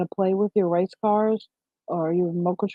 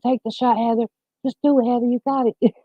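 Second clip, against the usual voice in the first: a mild mock yell of encouragement; mock courtside yell; 5 semitones higher than usual. Retelling cheering Heather on the basketball court, mild mock yell. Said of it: "and I'm screaming".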